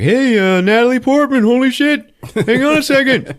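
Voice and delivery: high-pitched, hammed-up excited holler; mock excited greeting. A guy spotting Natalie Portman, hammed-up excitement. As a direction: call out like an overeager acquaintance.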